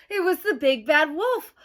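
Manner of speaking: big, loud dramatic announcement; dramatic reveal. A narrator's reading. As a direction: announce the villain with a boom.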